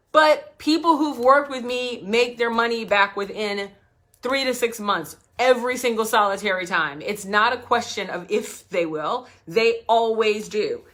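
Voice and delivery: annoyed founder insisting her clients profit; getting pissed. Retold or imitated. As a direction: stand your ground, irritated and loud. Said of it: "really pissed with this lady".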